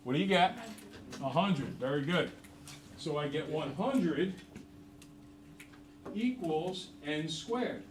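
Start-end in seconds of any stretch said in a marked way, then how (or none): 3.0-7.8 slow emphasis. Shown as a demonstration. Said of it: "teacher stating the result".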